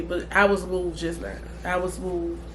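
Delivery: soft, moved and teary; quietly choked up; tearful. Real, not acted. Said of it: "as I'm crying".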